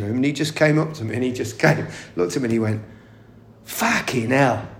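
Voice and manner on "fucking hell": put-on slow, drawn-out Cockney accent. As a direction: say it like a London Cockney.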